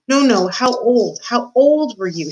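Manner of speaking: mild slow shout to be understood. Acted. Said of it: "shouted the P".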